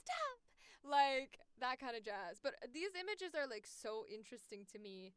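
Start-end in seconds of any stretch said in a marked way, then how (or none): 0.0-0.4 high squeaked playful halt; short, high-pitched mock police cry; mock command. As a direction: pipe it up high, pretending to order a halt.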